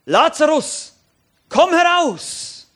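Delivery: laut und hoch gerufen, gedehnt; lauter Ruf. Acted. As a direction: ruf Lazarus laut aus dem Grab. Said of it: "rief er mit lauter Stimme". (Jesus ruft laut und langgezogen in die Grabhöhle)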